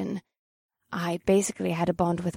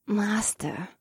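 hungry growl; 2 semitones higher than usual. Acted. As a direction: breathe out Master hungrily. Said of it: "Akira growled in a hungry voice".

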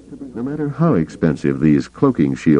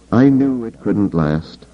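slow, resigned sigh; 6 semitones higher, slower than usual. Acted. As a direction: let it out with a weary sigh. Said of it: "Leia sighed".

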